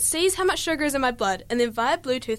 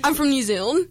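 put-on playfully thickened New Zealand accent; New Zealand accent, laughing; amped-up New Zealand accent. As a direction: ham up your New Zealand accent a touch. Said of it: "I amp up my New Zealand accent".

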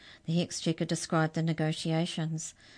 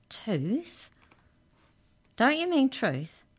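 puzzled; 8 semitones higher, slower than usual. Acted. Arthur questions the clerk.

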